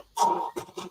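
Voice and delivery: voiceless choking noise; imitated choking. Imitating a man choked in his headlock, strangled noise. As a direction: mimic someone being throttled, no voice. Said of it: "And he's going".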